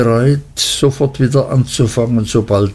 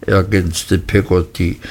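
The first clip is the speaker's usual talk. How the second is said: usual speaking voice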